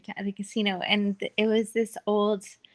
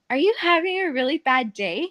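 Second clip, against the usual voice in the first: higher, sweetly condescending question; overly nice; 4 semitones higher than usual. Retold or imitated. Dealer to a hostile player, overly nice. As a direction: lay on the niceness, rising at the end. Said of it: "but, like, overly nice".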